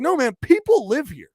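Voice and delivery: mock indignant lecture; retold scolding. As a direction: insist hard, voice climbing.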